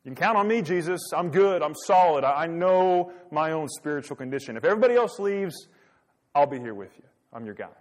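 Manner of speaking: lightly imitating a cocksure disciple; a touch of swagger in a loyal pledge; overconfident assurance. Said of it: "What has Peter just said?".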